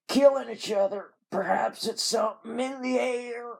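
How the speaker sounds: high, hammed-up Southern invalid; dying Southern man. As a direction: play a dying Southerner at full tilt. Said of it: "like a dying Southern man".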